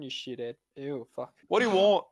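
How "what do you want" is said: loud annoyed yell; shouted reply. Real, not acted. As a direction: snap back loudly. Yelling back at mum.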